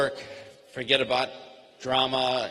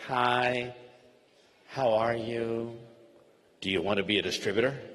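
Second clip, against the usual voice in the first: clumsy pushy pitch; 3 semitones lower than usual. Retold or imitated. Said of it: "it sounds very ugly, very impolite".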